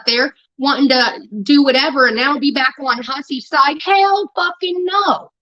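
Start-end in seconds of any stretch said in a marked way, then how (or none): 3.8-5.3 slow, drawn-out Hell fucking no; emphatic refusal. Real, not acted. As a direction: stretch out Hell fucking no word by word.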